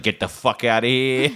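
retold aggressive dismissal, half laughing; mock aggressive. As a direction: act out her telling you off, laughter creeping in. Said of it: "like, aggressive".

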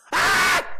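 loud, very high-pitched shriek; kid's scream. Retold or imitated. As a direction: imitate a screaming little kid. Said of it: "and goes".

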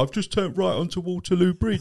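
high-pitched mocking impression of a show-off; boastful knob. Cab driver mocking drivers who post their routes on Twitter, high put-on boasting. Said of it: "some knob that goes".

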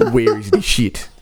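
mock French accent. German police officer confronts the musicians backstage, bad French accent. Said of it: "Everybody in Europe is Inspector Clouseau".

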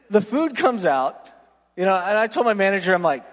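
ordinary talk, nothing marked

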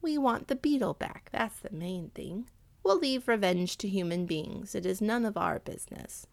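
calm, wise cat advice; counseling. Acted. Cat counsels the angry dog against revenge, calm. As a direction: counsel him gently as the cat. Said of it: "counseled the other".

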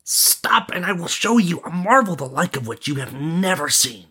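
high, contained shout. Acted. Prince promising a marvel, high calling voice. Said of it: "shouting to make himself heard above the din".

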